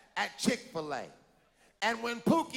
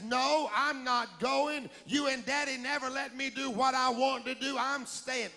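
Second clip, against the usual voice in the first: put-on bratty child; 2 semitones higher than usual. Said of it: "And Pookie says".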